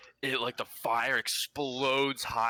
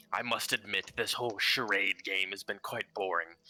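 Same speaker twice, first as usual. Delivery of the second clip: mild sinister boredom. Acted. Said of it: "sweet, kinda sinister tone".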